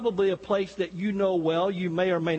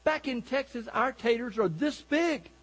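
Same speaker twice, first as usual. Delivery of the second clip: bragging Texan; 4 semitones higher than usual. Acted. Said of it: "The Texan said".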